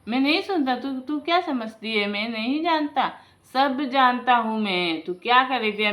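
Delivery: loud, furious scolding; angry husband. Acted. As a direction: tell her off hard, you heard everything. Husband confronts his scheming wife.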